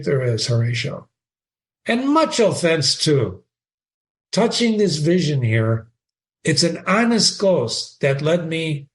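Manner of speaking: reading Shakespeare aloud with feeling; dramatic reading. Acted. Teacher reading Horatio to the class, dramatic reading. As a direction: give Horatio's line a lively read.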